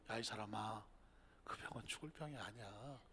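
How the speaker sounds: very soft, low reassurance; Jesus's gentle assurance. Acted. Jesus quietly reassuring the mourner, soft and low. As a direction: tenderly tell the grieving man. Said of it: "예수님은 말씀하셔".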